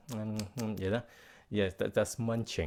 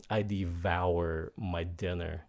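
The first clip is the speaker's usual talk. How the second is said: slow example; 3 semitones lower than usual. Shown as a demonstration. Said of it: "you can say".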